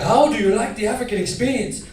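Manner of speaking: put-on taunting question in an African accent. African homeboy after the beating, African accent. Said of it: "one African homeboy".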